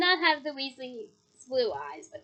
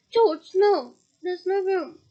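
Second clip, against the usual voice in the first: sharp, loud warning; urgent cry; 3 semitones higher, 6 dB louder, slower than usual. Acted. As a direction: call out to stop him. Urgent warning in cramped chimney.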